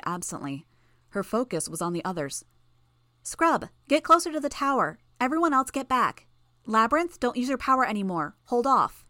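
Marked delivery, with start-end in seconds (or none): 3.2-9.0 high, loud commands across a battlefield; shouted orders. A narrator's reading. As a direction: call out over the fight. Tattletale calls orders across battlefield.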